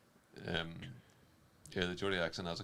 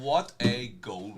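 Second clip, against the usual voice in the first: slow, loud, higher exclamation; savouring the goal; awed admiration; 4 semitones higher, 7 dB louder, much slower than usual. Real, not acted. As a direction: draw it out in amazement.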